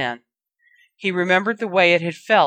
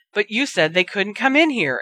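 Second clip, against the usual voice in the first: mild exclamation; 3 semitones higher than usual. Acted. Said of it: "exclaimed Dudley".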